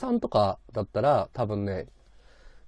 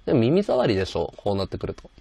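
put-on old radio voice; 5 dB louder than usual. Shown as a demonstration. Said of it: "昔のラジオっぽくするんだったら".

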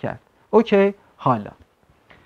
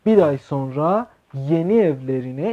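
slow reading; slower than usual. Shown as a demonstration. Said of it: "این کندیلرینه حذف شده".

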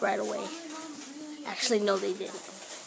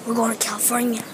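sick voice. Real, not acted. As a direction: voice worn down by a cold. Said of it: "That's why my voice sounds like this".

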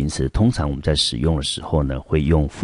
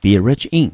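Be rich in called out higher and louder; phrase to remember; 5 semitones higher, 5 dB louder than usual. Shown as a demonstration. Teacher highlights the phrase for students to memorize. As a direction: punch out Be rich in as a key phrase. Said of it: "建议同学呢，也不妨呢，把它记起来".

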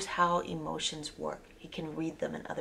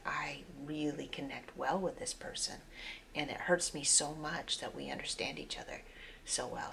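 mild sadness; 2 semitones lower, 7 dB quieter than usual. Retold or imitated. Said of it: "that's when you get really sad".

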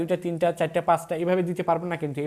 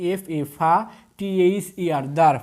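letters first, then each syllable ফা, দার; syllable-by-syllable demo; 5 dB louder than usual. Shown as a demonstration. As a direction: spell and sound ফা, then দার. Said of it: "আপনি দেখেন উচ্চারণ করতে পারতেছেন".

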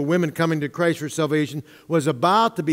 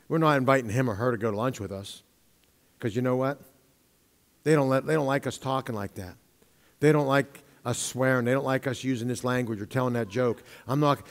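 quick, hushed office gossip, much softer; whisper-talk like coworkers freezing you out; 6 semitones lower, 7 dB quieter than usual. Retold or imitated. Pastor voicing coworkers who shun a believer, hushed and quick.

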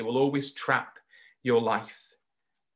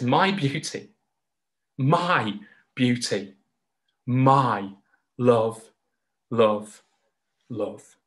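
tender declaration; much slower than usual. Retold or imitated. God speaking to his people, slow and tender. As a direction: speak it gently like holding someone close. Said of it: "he says".

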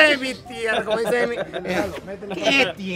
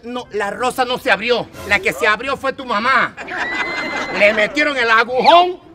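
louder, fast, blunt truth; loud blunt retelling; 7 dB louder than usual. Retold or imitated. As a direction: blurt it out loudly. (versión cruda y fuerte, rápida)

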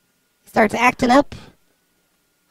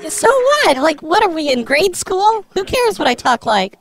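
defensive; 5 semitones higher than usual. Acted. Caller challenged on how they talk, defensive. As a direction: start high in indignation, then settle. Acted quarrel on prank call.

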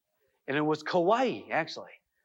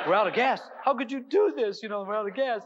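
higher, louder accusing outburst; exasperated wife; 5 semitones higher, 4 dB louder than usual. Retold or imitated. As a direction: blurt it like a fed-up wife. Wife realizes car is empty.

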